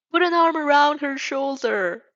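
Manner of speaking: high, loud, slow stage whisper; a whisper that is really a shout. Acted. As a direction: Mike coaching the shy fan, far too loud. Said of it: "President Mike whispers".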